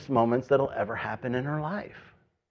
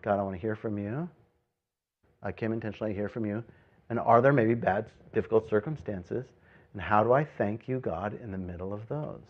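soft, lowered praying voice; hushed prayer; 3 semitones lower, 7 dB quieter than usual. Acted. Believer asking God for help in hardship, hushed prayer. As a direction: drop into a quiet, humble prayer.

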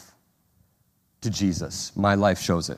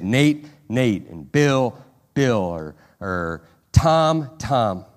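intimate; 2 semitones lower, much slower than usual. Retold or imitated. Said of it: "saying it intimately".

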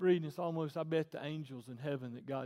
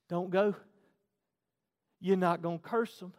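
loud, firm warning at natural pitch; raised-volume prohibition; firm command; 4 semitones higher, 10 dB louder than usual. Acted. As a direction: lay down the order, pausing after it. God's command replayed, before escalating.

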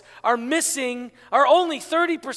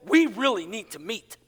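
lower, lilting read with a rise at the end; first reading of text; 4 semitones lower than usual. Shown as a demonstration. Pastor showing one way to read a text, lilting. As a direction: read it aloud, ending on a lift. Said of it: "you could read that as".

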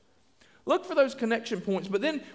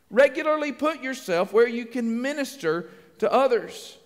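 slower, spaced-out delivery of a key point; slow emphatic repeat; slower than usual. Shown as a demonstration. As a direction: repeat it deliberately, phrase by phrase.

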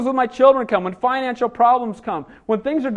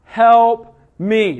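cry for help; 4 dB louder, much slower than usual. Acted. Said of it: "She prayed out loud for everybody to hear".

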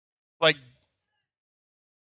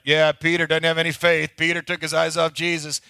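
mocking Sunday school teacher; 4 dB louder than usual. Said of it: "every time the teacher would tell this story".

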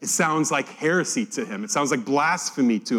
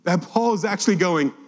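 usual speaking voice

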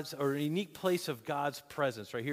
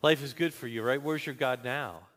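mocking; 3 semitones lower than usual. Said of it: "were mocking him and saying".

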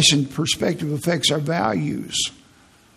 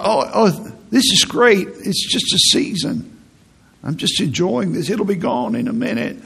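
mock cheerful; 4 semitones higher than usual. Mock cheer during a headache.

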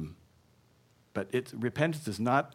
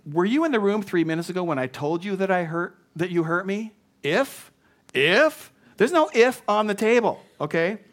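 high, loud, incredulous confrontation; indignant; 6 semitones higher, 5 dB louder than usual. Acted. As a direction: challenge the useless apology, pitch climbing. Acting the indignant hurt person.

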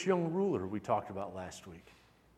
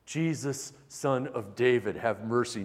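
reverent plea; 3 semitones lower than usual. Retold or imitated. Blind man crying out to Jesus in hushed reverence. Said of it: "Notice the awe and the reverence".

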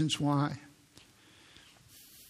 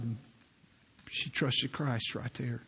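usual speaking voice

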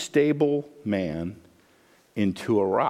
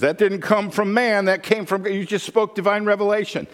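mild excited Jesus; 8 semitones higher than usual. Acted. Jesus voiced praising Peter.

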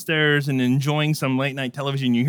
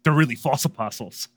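sarcastic aside. Retold or imitated. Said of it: "didn't get his sarcasm".

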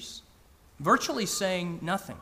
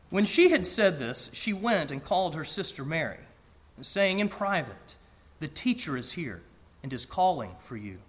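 scripture reading; 3 semitones lower than usual. Acted. Reads the Gospel passage aloud.

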